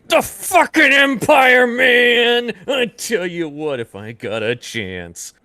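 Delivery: high, loud, slow furious outburst; angry rant. Retold or imitated. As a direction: vent like a hot-headed hero. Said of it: "here he's just like".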